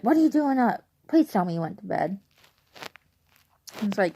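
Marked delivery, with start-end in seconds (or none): 0.0-2.2 surprised mom. Retold or imitated. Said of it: "she's like".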